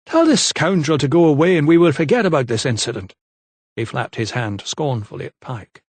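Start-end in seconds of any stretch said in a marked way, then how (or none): 0.0-3.1 scornful. A narrator's reading. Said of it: "sighed theatrically".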